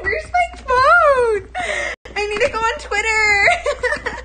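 put-on high, loud, squealing valley girl freaking out; valley girl panic. Valley girl squealing through an earthquake, hunting for her phone. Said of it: "how California girls act during earthquakes".

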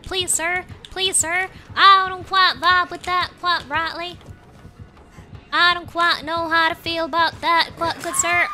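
put-on playful Southern-accented pleading; attempted Southern accent. Gamer protesting to the shooter, attempted Southern accent. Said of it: "trying to do my southern accent".

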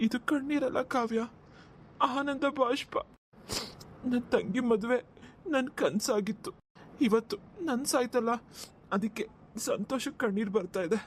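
halting, choked-up brother; tearful joy. Acted. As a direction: hold back happy tears, pausing between phrases. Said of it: "ಕಣ್ಣೀರ್ ಹಾಕ್ತಿದ್ದೀರಲ್ಲ".

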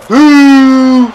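sharp high hype yell; excited boo. Real, not acted. Cheering own shot in the corner, excited yell. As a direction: shout it at the play.

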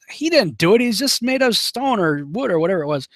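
lightly acted incredulous dad; high, mildly indignant retort; exasperated father. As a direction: raise the pitch as if stating the obvious. Exasperated dad arguing back in story.

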